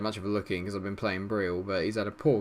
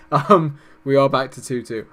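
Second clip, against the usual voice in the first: loud, higher, delighted laugh into the news; excited laughing; 5 semitones higher, 11 dB louder than usual. Real, not acted. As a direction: burst out with joy at the equaliser. Celebrating an equalising free kick.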